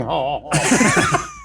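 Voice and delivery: campy showbiz cackle; flamboyant impression laugh. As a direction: cackle like an old game-show guest. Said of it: "Is that Rip Taylor?".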